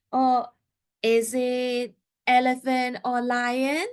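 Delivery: slow, rising "elephant or lion?" with the stress on "elephant"; binary choice question. Shown as a demonstration. Therapist offering child two choices, slow and inviting. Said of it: "we can say".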